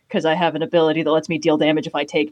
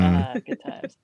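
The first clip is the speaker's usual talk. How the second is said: deep, dramatic actor voice; acting voice; 12 semitones lower, 4 dB quieter than usual. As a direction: drop low and ham it up theatrically. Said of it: "That's that acting voice".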